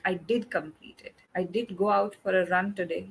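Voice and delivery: DID emphasized in each example; stress on DID. Shown as a demonstration. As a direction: lean on DID to show it really happened. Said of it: "you are emphasizing on the word did".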